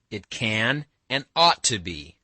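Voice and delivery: slow, weighty stress on "can" and "ought"; emphatic. A narrator's reading. Alyosha answering Katya's doubt, emphatic on "can" and "ought". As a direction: lean firmly on "can" and "ought". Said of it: "Alyosha began emphatically".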